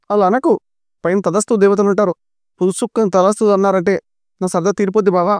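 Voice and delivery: high, playful pleading; teasing plea. Acted. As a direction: beg him jokingly not to jinx it. Tirupati pleads with his brother-in-law.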